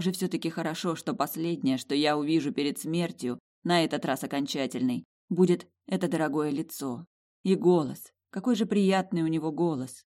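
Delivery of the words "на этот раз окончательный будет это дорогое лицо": usual speaking voice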